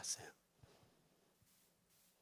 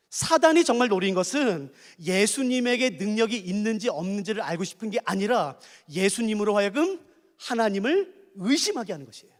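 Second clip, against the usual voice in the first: normal talking voice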